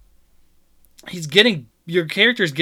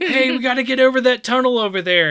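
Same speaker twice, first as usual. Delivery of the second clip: quoting the lady character; 10 semitones higher, 7 dB louder than usual. Retold or imitated. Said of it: "It's like".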